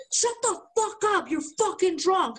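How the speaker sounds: high, dismissive mock girlfriend; imitating the girlfriend scolding him; mock angry girlfriend. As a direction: brush him off as drunk. Girlfriend voiced in quarrel.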